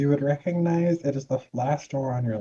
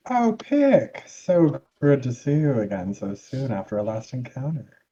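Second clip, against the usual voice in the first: gushing rival greeting; 4 dB louder than usual. Acted. Jerome greeting Pick after their last encounter, gushing mock delight.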